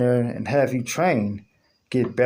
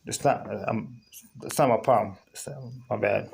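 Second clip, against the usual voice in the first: drowsy, fading words; half asleep, eyes closing; nodding off; 3 semitones lower, 6 dB quieter than usual. Real, not acted. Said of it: "I'm kinda tired".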